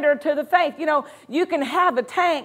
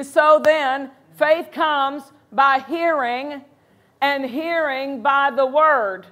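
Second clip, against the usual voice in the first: slow, weighty verse read; slow scripture reading; slower than usual. Acted. Preacher reading the verse to the congregation, slow and weighty. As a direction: lay out each word of the verse slowly.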